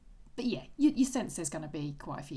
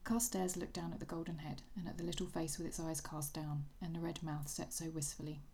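story narration. A narrator's reading. Host reads the reunion scene from the novel, story narration. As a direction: let the passage unfold like a story read aloud.

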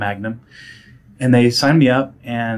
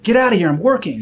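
mock annoyed friend; 9 semitones higher, 6 dB louder than usual. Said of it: "she'd be like".

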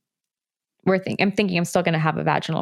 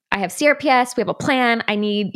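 retold yell; 4 semitones higher than usual. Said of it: "I'm laying on the table yelling".

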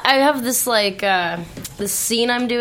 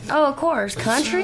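higher-pitched country twang; country accent; 4 semitones higher than usual. Shown as a demonstration. Actress challenged to do hardcore country, put-on country accent. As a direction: lay on the country accent, confidently. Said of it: "Can you hardcore do the country".

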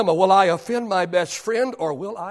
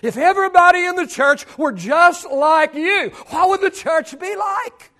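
louder and higher, pressing; raised preaching question; 11 semitones higher, 6 dB louder than usual. Shown as a demonstration. Preacher challenging each member of the church, raised voice. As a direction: throw the question out to the room. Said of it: "And the question is".

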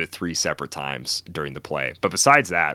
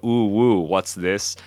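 cutesy internet speak; 2 semitones higher, 4 dB louder, slower than usual. Retold or imitated. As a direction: imitate an actress's cutesy W-speak. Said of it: "kind of like internet speak".

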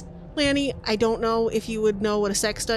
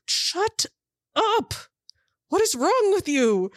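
snapping shout; 5 semitones higher than usual. Acted. Woman snaps at partner, threatens captives.

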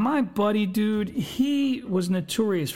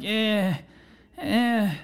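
mock hungover groan; reluctant groan. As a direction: groan it out, unwilling. Reluctant hungover reply to buddy.

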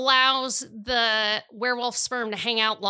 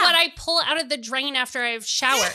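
laughing; 5 semitones higher, 3 dB louder than usual. Real, not acted. Laughing disgust.

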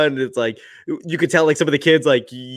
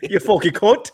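higher-pitched cartoon Cockney insult; mock Cockney accent; 6 semitones higher than usual. Co-host joking as a London thug, mock Cockney accent. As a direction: insult in a silly movie Cockney. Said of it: "are definitely movie accents".

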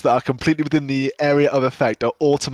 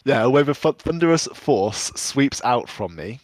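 sexy voice. Shown as a demonstration. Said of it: "I want you to do it in a sexy voice".

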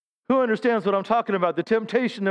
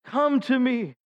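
slow, gentle a hint of calling; Lord's call; 4 semitones higher, much slower than usual. Preacher voices the Lord calling people home, slow and gentle. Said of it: "He's saying".

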